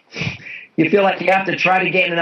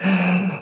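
deep gasp in; 3 semitones higher than usual. Shown as a demonstration. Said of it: "then they'll take a deep breath".

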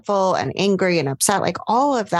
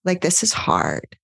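soothing self-talk. Shown as a demonstration. Coach demonstrating tender self-talk to a struggling self. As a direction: comfort yourself like a loved one. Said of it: "something really endearing towards yourself".

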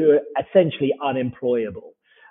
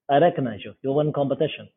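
put-on Russian accent; 4 dB quieter than usual. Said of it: "By the way, this accent is uncommonly good".

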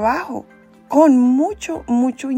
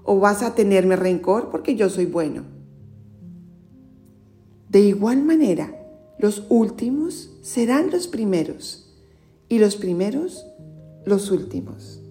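storyteller reading scripture; Gospel reading. Acted. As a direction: clear read-aloud narration. Reads the Gospel aloud.

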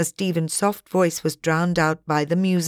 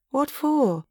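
surprised question; 9 semitones higher than usual. A narrator's reading. Character question in story.

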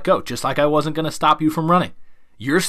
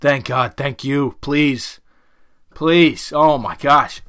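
relieved dog voice; much slower than usual. Retold or imitated. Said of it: "they go".

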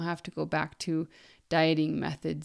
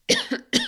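sudden choking cough; coughing fit; 8 dB louder than usual. Real, not acted. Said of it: "sorry, I'm choking".

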